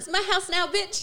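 sassy snake voice. Retold or imitated. Voicing the snake's attitude.

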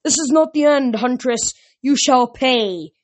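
a wounded monster vowing revenge; monster wailing. A narrator's reading.

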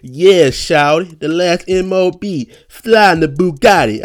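high, slow, drawn-out mock rap drawl; impression of a rapper. Mocking a rapper's verse for listeners, high and slow. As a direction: ham up the rapper's lazy flow, slowed way down. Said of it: "why do y'all keep letting Birdman rap".

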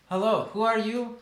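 high, loud, put-on challenge to strangers; researcher character voice. Game master voices surprised researcher.

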